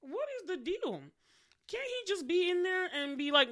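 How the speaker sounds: high-pitched, indignant protest; retold exasperation, pitched high; exasperated. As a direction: demand an answer, fed up.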